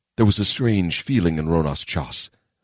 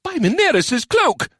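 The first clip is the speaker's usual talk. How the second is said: startled oath, higher and sharp; swearing; 4 dB louder than usual. Acted. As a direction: curse as the doors bang open. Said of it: "Sajay swore".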